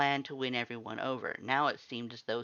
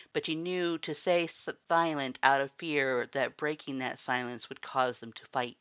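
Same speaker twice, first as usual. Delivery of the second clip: plain reading voice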